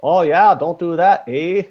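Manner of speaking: hammed-up Canadian accent, high, with drawn-out eh; over-the-top fake Canadian with "eh"; bad Canadian accent. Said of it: "Is that a bad Canadian accent?".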